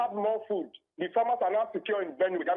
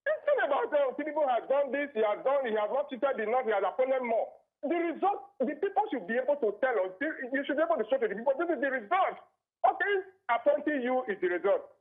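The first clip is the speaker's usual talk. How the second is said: frustrated; 4 semitones higher than usual. Real, not acted. Caller venting about appointees.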